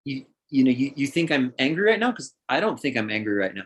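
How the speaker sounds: mildly puzzled, curious questioning; wondering, non-defensive check. Acted. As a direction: ask with open curiosity, not anger. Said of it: "I would respond in curiosity".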